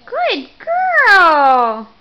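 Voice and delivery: loud cheerful praise. Real, not acted. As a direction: cheer her on loudly. Praising baby while feeding.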